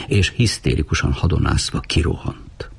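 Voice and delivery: ordinary delivery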